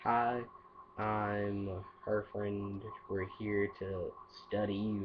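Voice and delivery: casual intro. Shown as a demonstration. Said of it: "Just like".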